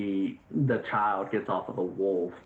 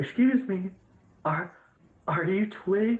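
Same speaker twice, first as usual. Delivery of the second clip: put-on very high, nervous, jumpy, skittish little kid voice; 10 semitones higher than usual. A child sent to deliver something approaches the player, skittish child. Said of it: "I'm a little bit skittish".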